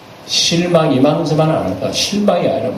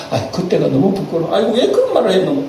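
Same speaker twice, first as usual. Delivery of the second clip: embarrassed laugh; 5 semitones higher than usual. Retold or imitated. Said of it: "그러고 말이야".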